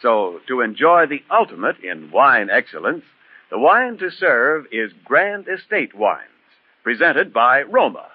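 smooth radio ad read. Acted. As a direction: sell the wine, warm and measured. Reads the sponsor's wine ad.

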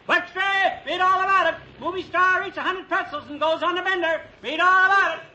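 loud hawker's cry on the street corner; newsboy shout. Shown as a demonstration. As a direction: bellow it like a newsboy selling papers. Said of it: "The only way to sell papers is".

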